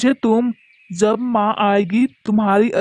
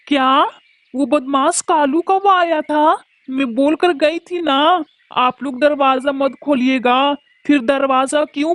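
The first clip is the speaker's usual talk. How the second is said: shocked mother; 3 semitones higher than usual. Acted. Mother hears of the kidnapping.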